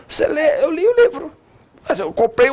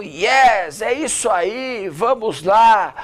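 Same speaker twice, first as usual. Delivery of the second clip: attention-grabbing; much slower than usual. Shown as a demonstration. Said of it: "pra você chamar a atenção".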